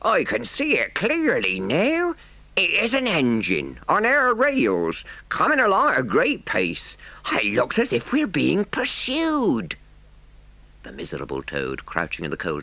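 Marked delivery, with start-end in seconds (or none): 0.0-9.8 much higher, slow calling-out voice. Acted. Driver calling out to Toad about the pursuing engine, high and loud. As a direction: call it back loud and high from the coals. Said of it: "Presently he called out".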